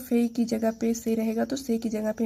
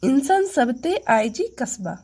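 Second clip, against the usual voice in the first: like giving an address. Shown as a demonstration. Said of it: "जैसे कोई address बता रहे हो".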